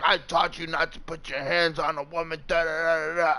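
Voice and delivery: mock lecturing dad voice; mocking father. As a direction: parody the father droning on. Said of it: "He's like".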